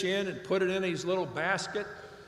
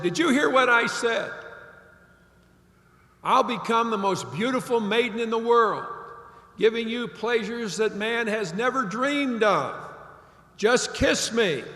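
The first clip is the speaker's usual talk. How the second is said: louder, higher, pushier frog voice, lightly voiced; insistent frog; 3 semitones higher, 4 dB louder than usual. Frog in the pocket presses the old man, louder and higher. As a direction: demand to be heard, slowing on the last plea. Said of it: "And the frog said".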